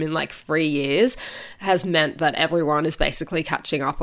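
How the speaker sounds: hoarse, rough voice from a cold; smoker's rasp. Real, not acted. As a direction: talk through a sore, raspy throat. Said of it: "So I sound terrible".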